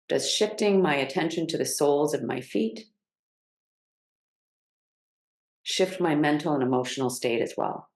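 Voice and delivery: unhurried guiding voice with long pauses; measured meditation cues, settling on each phrase; guided grounding practice. Real, not acted.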